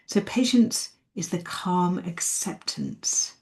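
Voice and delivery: soft calm repeat. Shown as a demonstration. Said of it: "repeats the quote softly".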